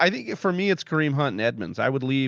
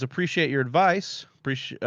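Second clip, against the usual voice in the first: usual speaking voice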